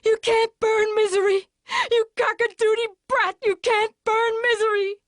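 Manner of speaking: high, loud, enraged screech; furious shriek. A narrator's reading. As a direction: screech at the brat in fury. Annie raging at Paul.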